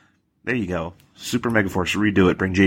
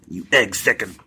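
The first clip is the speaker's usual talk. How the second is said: Wolverine; slower than usual. Acted. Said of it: "really bad version of the original X-Men, like, Wolverine".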